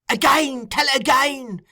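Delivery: very high, loud demand; frantic cry. A narrator's reading. Fagin ordering Noah to repeat, high and frantic. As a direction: cry out in a frenzy. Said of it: "cried Fagin".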